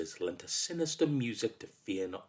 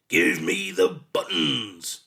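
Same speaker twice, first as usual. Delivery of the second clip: slow, loud, booming demand; storming monster; 3 semitones lower, 5 dB louder, slower than usual. A narrator's reading. Monster demanding buttons from boy, storming. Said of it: "the monster stormed".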